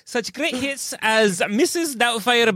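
high, slow put-on ogre voice; a goofy over-the-top Shrek; Shrek impression. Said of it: "sound like Donkey Kong".

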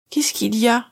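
a hint of grogginess, lightly voiced; groggy. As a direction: ask it half awake. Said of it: "d'une voix encore groggy".

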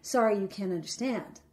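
quietly snide, voice dropped; snide, condescending. Retold or imitated. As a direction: talk down to them, low and quiet. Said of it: "in a very snide, condescending way".

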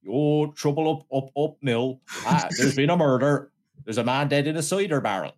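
shaky attempt at a regional English detective's accent; amateur regional accent impression, slipping as it goes; Inspector Doppler. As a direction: put on a hammy English country policeman's accent. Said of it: "Inspector Doppler kinda talks like that".

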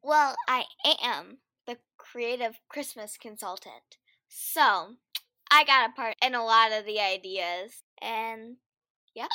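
holding back hiccups; talking through hiccups. Real, not acted. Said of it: "I have the hiccups".

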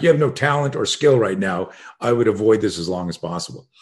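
blunt coach's verdict, no heat; matter-of-fact. Retold or imitated. Coach assessing his student's skill, matter-of-fact. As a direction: state it as simple fact. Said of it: "very matter of fact".

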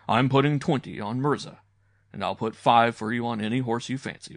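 a hint of a hearty uncle; lightly voiced genial uncle. Uncle offers boy a bet.

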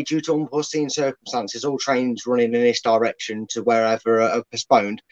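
mock train announcement. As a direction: read it like a lightly voiced platform announcement. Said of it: "Leicester should do a train announcement".

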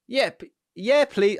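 high, meek yes please; timid yes please. Retold or imitated. Runner offered the ball, meek high yes please. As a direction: ask shyly for the ball. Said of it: "pointed at myself".

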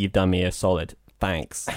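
mean the "Thanks" warmly; sincere thanks. Pretend. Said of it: "he was like".

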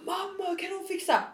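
high-pitched yell without the volume; mock scream. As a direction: imitate calling for mum, high but held back. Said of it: "Så jag bara skriker". (dämpat låtsasskrik med ljus röst)

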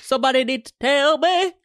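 loud, high, put-on wail; mock outcry. Co-host backing her friend's rant, loud mock outcry. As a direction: cry it out in exaggerated demand.

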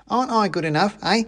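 high, challenging little complaint; aggrieved mouse soldier. A narrator's reading. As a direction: demand an answer as the slighted soldier. Soldier mouse feels slighted.

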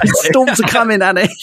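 high-pitched older lady impression; high old-woman character voice; Jira. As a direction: play an old lady fretting, pitched well up. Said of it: "she's the older lady in Phantom Menace who goes".

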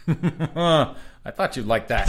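high, slow teasing sing-song. Acted. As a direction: tease him, high and drawn out. Teasing cohost, said twice.

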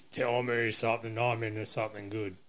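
a hint of a lazy slob crooning; lightly voiced jingle line; Bargearse voice. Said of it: "that's my Bargearse impression".

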